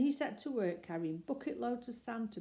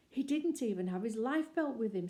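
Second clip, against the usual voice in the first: anxious; 4 semitones higher, 4 dB louder than usual. Acted. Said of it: "said Missus Brown anxiously".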